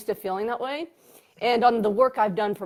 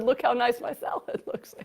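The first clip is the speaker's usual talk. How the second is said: laughing quote; 2 semitones higher than usual. Retold or imitated. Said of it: "I just said".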